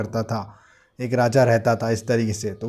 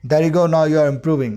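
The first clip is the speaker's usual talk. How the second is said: encouraging; 2 semitones higher, 4 dB louder, much slower than usual. Shown as a demonstration. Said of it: "motivate करने के लिए".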